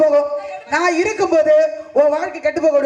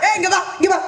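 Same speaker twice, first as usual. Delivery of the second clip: calling out; faster than usual. Acted. Calling the newcomer over.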